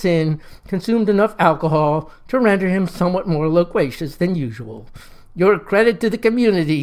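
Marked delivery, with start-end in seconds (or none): 5.4-6.8 put-on drunk slur. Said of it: "he slurred".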